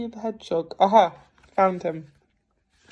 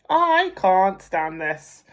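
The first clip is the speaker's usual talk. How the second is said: exasperated; 5 dB louder, slower than usual. Acted. Mr Bear frustrated.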